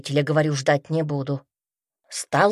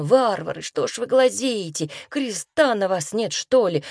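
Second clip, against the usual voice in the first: shouting at the crowd; 5 semitones higher than usual. Retold or imitated. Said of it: "крикну".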